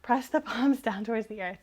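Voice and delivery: correcting 'earth' with a laugh; laughing correction. Real, not acted. Teacher laughs as she corrects her own cue. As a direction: catch the slip and fix it, chuckling. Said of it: "I can't speak today".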